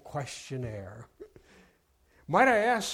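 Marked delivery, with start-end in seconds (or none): 2.3-2.9 higher, curious polite question; newly interested. Acted. Clerk turning curious toward the mother: higher, polite interest. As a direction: lean in, suddenly intrigued. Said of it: "said the clerk with new interest".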